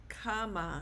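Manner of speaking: "cama" punched on the first syllable, CA-ma; stress on first A. Shown as a demonstration. Teacher demonstrating the rule on this word, "cama" stressed on CA. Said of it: "the stress is on the first A".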